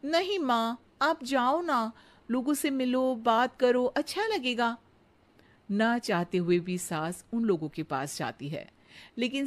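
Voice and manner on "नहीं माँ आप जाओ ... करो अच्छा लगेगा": put-on higher, eager young bride's voice; sweet daughter-in-law. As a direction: flatter the mother-in-law sweetly. Radha coaxes.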